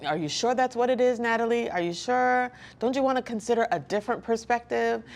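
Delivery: lightly acted challenge to think again; imitated patient questioning. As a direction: question them like a patient coach. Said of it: "just slow hand just walking me through".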